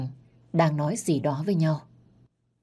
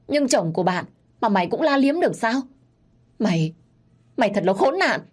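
louder, faster tirade; furious shout; 3 semitones higher, 4 dB louder than usual. Acted. Betrayed wife yelling at her friend, furious. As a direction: lash out at the mistress. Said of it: "trợn mắt và nói lớn".

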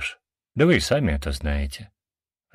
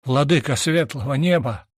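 higher-pitched, moaning lament; half-sigh, half-moan; 6 semitones higher than usual. A narrator's reading. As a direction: groan the name out in sorrow. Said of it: "послышался полувздох, полустон Сайроона". (полувздох, полустон)

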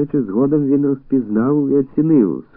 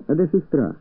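abrupt, higher question; sudden question; 6 semitones higher than usual. A narrator's reading. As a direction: fire it at her out of nowhere. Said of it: "запитав він несподівано".

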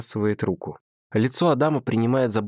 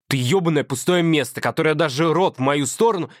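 higher, heated and insulting; angry boyfriend; 4 semitones higher than usual. Acted. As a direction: lay into her with contempt. Adam's voice in the quarrel.

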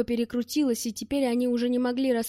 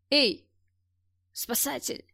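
shout; 2 semitones higher, slower than usual. Acted. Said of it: "крикнул Глушков".

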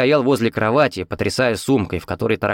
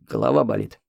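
low groan; 11 semitones lower than usual. A narrator's reading. Hero asks for painkiller.

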